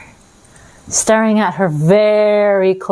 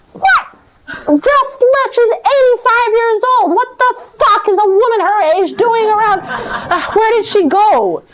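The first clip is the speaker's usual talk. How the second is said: exasperated what, half laughing; outraged disbelief; 12 semitones higher than usual. Acted. Death baffled that an old woman left, high outraged disbelief.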